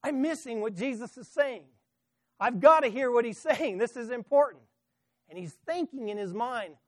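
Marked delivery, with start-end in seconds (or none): 0.0-4.6 anxious inner voice. Retold or imitated. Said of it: "he's wondering".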